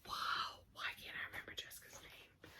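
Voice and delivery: fast whispered aside to herself; 快速地自言自语耳语. Real, not acted. Muttering to herself, forgetting name.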